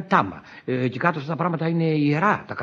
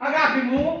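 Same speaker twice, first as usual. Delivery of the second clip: high call at normal volume; softer call; 10 semitones higher than usual. Acted. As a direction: call out high without forcing it. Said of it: "να τη φωνάζουμε αγάπη μου".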